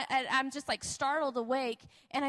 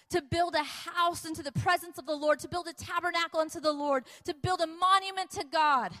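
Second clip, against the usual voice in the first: impassioned sermon, building higher and more emphatic; fervent preaching; 3 semitones higher, 3 dB louder than usual. Acted. Preacher assuring the congregation that God will provide, fervent. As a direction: drive each promise home with conviction.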